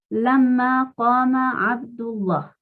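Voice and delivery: Abdullah with the lam of Allah made heavy, slow. Shown as a demonstration. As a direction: read Lamma qama Abdullah slowly, thick lam. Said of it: "Estoy diciendo Allah fuerte".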